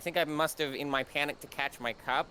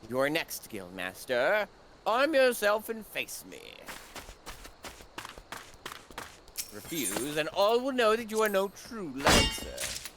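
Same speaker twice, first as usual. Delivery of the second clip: villain voice; 4 semitones higher than usual. Acted. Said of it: "trying to find a good villain voice".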